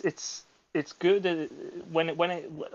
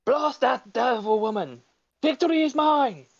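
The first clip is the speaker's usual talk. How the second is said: high, strutting cartoon baby villain; a pompous little tyrant crowing in triumph; high voiced scheming cartoon baby, gloating; Stewie impression; 9 semitones higher, 3 dB louder than usual. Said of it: "could you do a Stewie impression".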